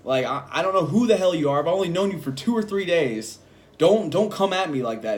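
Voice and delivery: firm, indignant telling-off; getting mad. Retold or imitated. Worker confronting coworker over disrespect, getting mad. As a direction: retell yourself laying down the law, emphatic. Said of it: "At this point, I'm getting mad".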